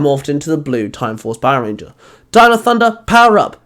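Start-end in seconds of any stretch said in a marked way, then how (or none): 2.3-3.6 high, loud morph cry; called out. Acted. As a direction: call it out with power. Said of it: "Chloe called out".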